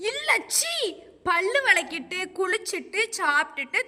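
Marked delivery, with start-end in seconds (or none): 0.1-0.7 disgusted scoff. Real, not acted. Asked about brushing teeth.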